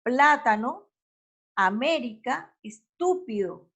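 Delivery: PLÁ in "Plátano", MÉ in "América", TÚ in "estúpido" stressed; teacher separating "Plátano", "América", "estúpido", each stressed third from the end; stress on the antepenultimate syllable. Shown as a demonstration. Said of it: "la fuerza se hace en la antepenúltima".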